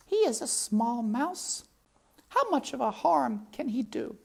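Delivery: put-on high, breezy French-accented shrug. Antoinette voiced in French accent.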